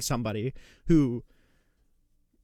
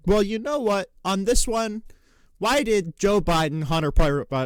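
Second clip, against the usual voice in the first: mocking Piers Morgan; 5 semitones higher, 3 dB louder than usual. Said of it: "It would be so much more effective, Destiny, if you said".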